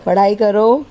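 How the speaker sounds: put-on loud playful command to a baby; mock-stern order. Mother telling her baby to get up and study, mock-stern and loud. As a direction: chivvy along noisily, only teasing.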